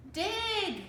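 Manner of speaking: high, sharp command; shouted. A narrator's reading. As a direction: snap the order out. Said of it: "shouted Captain Bones".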